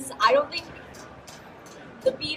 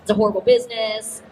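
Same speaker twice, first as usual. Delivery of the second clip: disapproving mom; 3 semitones lower, 5 dB louder than usual. Retold or imitated. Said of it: "My mom was like".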